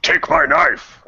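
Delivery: high, drawn-out character shout. Acted. Player shouts as his character Braga, shouting out. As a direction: call it out loud and slow. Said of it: "Braga will just shout out".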